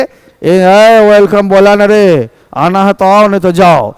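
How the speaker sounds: rude rustic welcome. Shown as a demonstration. Teacher mocking a rude host greeting a guest, gruff. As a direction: brush the guest off rudely. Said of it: "ये ठेठी हो गया".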